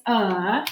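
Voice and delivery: short neutral uh, like the a at the start of "again"; isolated schwa "uh"; schwa sound. Shown as a demonstration. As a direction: say "uh" as a relaxed schwa. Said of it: "the first sound in again is".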